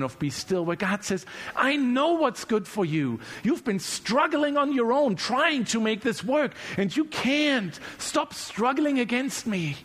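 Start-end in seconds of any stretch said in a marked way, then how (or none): 1.5-9.8 God's voice. Acted. God voiced pleading with listener.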